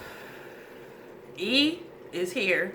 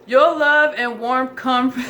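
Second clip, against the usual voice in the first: grandma's voice; 4 semitones higher, 7 dB louder, slower than usual. Pretend. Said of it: "My grandma was like".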